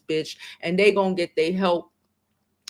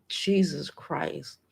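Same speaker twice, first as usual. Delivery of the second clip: emotional; 6 dB quieter, much slower than usual. Real, not acted. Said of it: "I get emotional".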